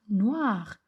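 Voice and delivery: "noir" drawn out slowly; teacher sounding out "noir"; stressed end sound. Shown as a demonstration. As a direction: stretch out "noir" so the rhyme is heard. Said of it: "On entend à la fin du tamanoir".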